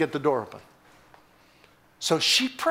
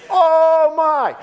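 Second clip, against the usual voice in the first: loud, high preacher's cry; emphatic exclamation; 12 semitones higher, 10 dB louder than usual. Real, not acted. Preacher exclaims at his own question.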